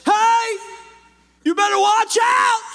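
high, loud warning cry; warning shout. Acted. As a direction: yell it like a watchman on the wall. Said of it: "And he says".

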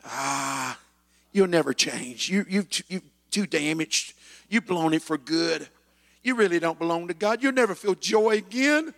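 pastor voices the lies of the inner critic; inner accusing voice. Retold or imitated. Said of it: "your own voice telling you".

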